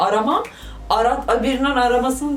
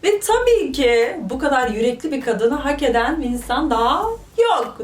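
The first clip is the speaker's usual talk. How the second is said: usual speaking voice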